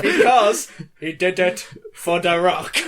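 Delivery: drawn-out catchphrase; hammed-up wrestler drawl; slow announcer voice.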